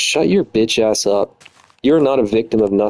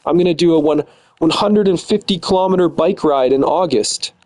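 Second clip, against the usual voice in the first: mocking fake charity; 5 semitones higher than usual. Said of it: "pretend like she's a good person".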